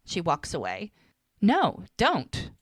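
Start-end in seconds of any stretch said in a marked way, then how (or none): 1.4-2.5 louder, higher mock protest; firm refusal. Woman stopping her ex's pleas, firm. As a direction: cut him off, acting out her refusal.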